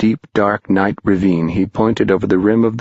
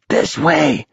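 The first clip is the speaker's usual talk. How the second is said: yell; 7 semitones higher than usual. Acted. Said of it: "they all yelled".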